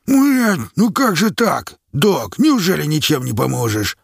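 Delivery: high, loud cry of dismay; captain pleading with the doctor, dismayed and loud; anguished exclamation. A narrator's reading. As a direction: cry out in disbelief at the dying men. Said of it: "воскликнул он".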